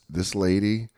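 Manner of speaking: lightly imitated put-on voice; understated imitation of an affected speaker; billionaire lady's voice. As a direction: slowly slip into a hint of her affected voice. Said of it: "she does this voice".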